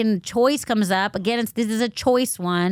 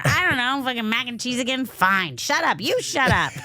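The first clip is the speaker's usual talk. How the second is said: higher, exasperated pretend squabble; mock couple bickering; 4 semitones higher than usual. Host acting out parents squabbling over dinner, mock exasperated. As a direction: play an exasperated spouse snapping back.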